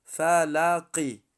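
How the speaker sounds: heavy ق in فلقی; heavy Qaf. Shown as a demonstration.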